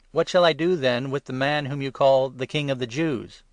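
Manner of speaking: loud, high, pleading appeal to the crowd; Pilate's loud question. Acted. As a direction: call over the crowd's noise.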